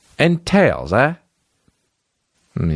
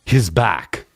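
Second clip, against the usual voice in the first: put-on low lightly done Austrian Terminator accent; a hint of Arnold's Austrian drawl; Schwarzenegger accent; 3 semitones lower than usual. Mocking Terminator line, light Austrian accent. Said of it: "and he says".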